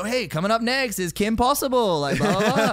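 mock-cheery TV announcer, stretched out and belted; kids' show host. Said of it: "hosting a kids show where we'll go".

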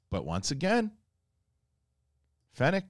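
ordinary talk

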